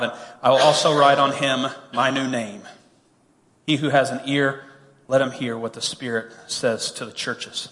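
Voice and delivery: measured, solemn scripture read. Acted. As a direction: read it out like holy writ to the congregation. Reads scripture passage aloud.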